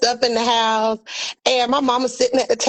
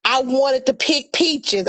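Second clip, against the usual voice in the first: mama reminiscing; slower than usual. Retold or imitated. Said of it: "she goes into this".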